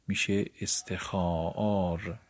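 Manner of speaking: استخاار said slowly with the long a of خا stretched out; استخاار pronounced slowly with a long stretched a; awkward drawn pronunciation. Shown as a demonstration. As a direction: drag out استخاار as a forced makeshift form. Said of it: "تلفظ درستش اینطور نیست".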